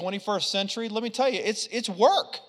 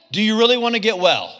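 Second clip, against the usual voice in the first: louder, faster, pushing on really; bold challenge; 5 dB louder, faster than usual. Retold or imitated. Preacher voicing Jesus firmly challenging the invalid. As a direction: challenge him like a lion.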